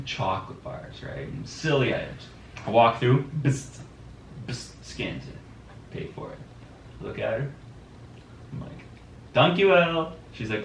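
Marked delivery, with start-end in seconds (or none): 3.4-4.7 short mouth-made scanner bzzt; quick buzzing scan noise; imitated scanner buzz. 9.3-10.2 higher, louder Dutch thank-you; Dutch-accented, lifted and punched up. Retold or imitated. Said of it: "didn't know you weren't Dutch".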